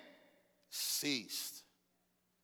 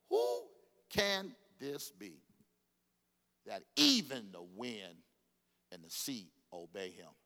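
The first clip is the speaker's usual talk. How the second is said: awed disciples; 7 semitones lower, slower than usual. Acted. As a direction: marvel fearfully. Disciples' awe voiced.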